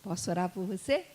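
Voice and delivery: softly, low, asking permission to pray; a careful, hushed question; gentle offer. Retold or imitated. Preacher beside seated guest offering prayer, gentle and low. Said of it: "fiz assim, ó".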